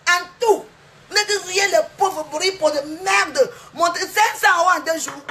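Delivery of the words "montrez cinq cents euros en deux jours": défi crié. Real, not acted. Défie les autres en criant.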